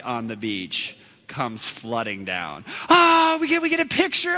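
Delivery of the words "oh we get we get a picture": high excited call; high-pitched eager shout; excited crowd. Retold or imitated. Beachgoers calling out excitedly.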